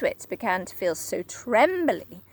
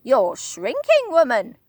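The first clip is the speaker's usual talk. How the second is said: louder gruff taunt; Mister Twit, taunting; 7 dB louder than usual. Acted. Husband taunting his wife, gruff. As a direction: jab it at her. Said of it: "said Mister Twit".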